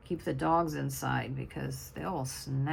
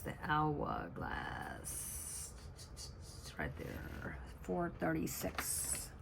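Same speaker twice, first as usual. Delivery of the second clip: whispering to herself; 8 dB quieter, much slower than usual. Real, not acted.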